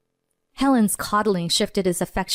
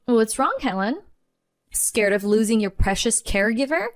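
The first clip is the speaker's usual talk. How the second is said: taunting; 2 semitones higher than usual. Acted. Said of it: "I taunted".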